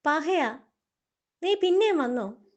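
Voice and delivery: fed up, yell at the pest; annoyed shout at the pest; exasperated. Acted.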